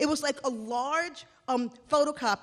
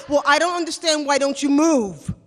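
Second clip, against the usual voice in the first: condescending boss; 4 semitones higher, 10 dB louder than usual. Retold or imitated. Boss scoffing at her lack of cable.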